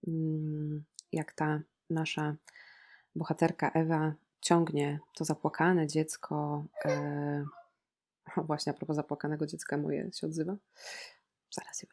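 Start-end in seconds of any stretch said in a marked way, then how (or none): none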